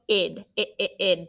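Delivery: "it" said as a light unstressed schwa syllable; schwa sound shown. Shown as a demonstration. Teacher showing class the schwa ending, light and unstressed. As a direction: show the weak "it" ending of crooked. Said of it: "but it's a schwa".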